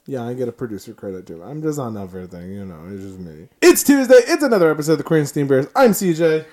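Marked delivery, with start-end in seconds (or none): 3.6-6.5 loud, fast host intro; excited host intro. Acted. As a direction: pump up the show intro. Show intro redone.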